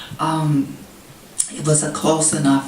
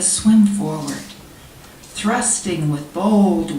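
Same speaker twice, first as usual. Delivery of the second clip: measured poetry recital, pausing between lines; poem reading. Real, not acted. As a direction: read it as verse, phrases falling at the ends. Reads own poem to audience.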